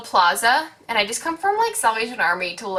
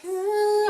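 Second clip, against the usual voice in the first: dazed hum; 11 semitones higher than usual. Retold or imitated. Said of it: "I'm in, like, a daze".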